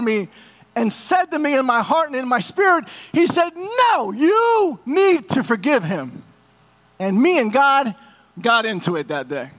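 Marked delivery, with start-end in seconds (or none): 3.6-6.2 higher, slow, firm command; God's firm voice. Retold or imitated. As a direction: stop him gently but firmly as God. God's voice speaks in his heart.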